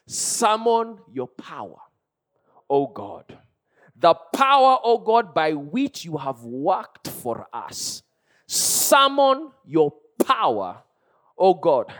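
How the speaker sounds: slow, stretched-out proclamation, rising and dropping on the address; preacher's ringing invocation; crying out in prayer. Retold or imitated. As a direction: declaim it like a psalmist's plea. Declaims psalm as a cry.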